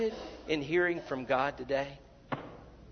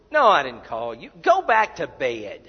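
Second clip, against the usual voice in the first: loud, slowing send-off; acted grumpy priest ordering a boy to bed; dismissive order; 3 semitones lower, 8 dB louder than usual. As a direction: send him off, loudly. Priest sends boy back to bed.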